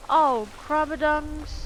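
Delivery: comic loud mock curse; drawn-out loud exclamation. Real, not acted. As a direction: stretch it out slow and loud. Mock curse after a fail.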